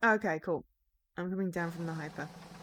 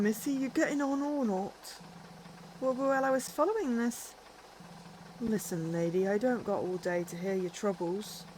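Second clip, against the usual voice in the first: gruff bus driver; 4 semitones higher than usual. Acted.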